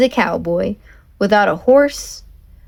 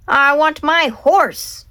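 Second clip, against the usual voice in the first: high, slow despairing shout; 6 semitones higher, slower than usual. Acted. Leroy shouting his loss into the storm, despairing. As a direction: cry it out into the rain. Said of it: "Leroy Ninker shouted into the wind".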